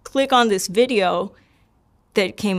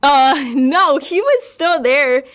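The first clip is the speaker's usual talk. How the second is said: high, louder, amused denial; real laughing; 6 semitones higher, 6 dB louder, slower than usual. Real, not acted. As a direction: laugh off the teasing question. Laughs at co-host's teasing question.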